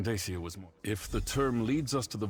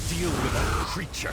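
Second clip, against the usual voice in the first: slow, loud commanding call; urgent shout; 4 semitones higher, 7 dB louder than usual. Acted. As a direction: shout the order over the fight. Wounded counselor orders the fight.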